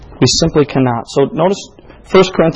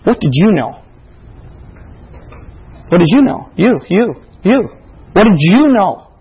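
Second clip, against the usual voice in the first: God asks the risen soul, lightly voiced, building; God questioning; 4 semitones higher than usual. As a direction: press the question home, building. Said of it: "He can say".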